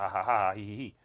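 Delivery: spelled-out pretend laugh, fading off; mock laughter. Retelling officers having a good time, mock laughter. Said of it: "We're laughing and joking".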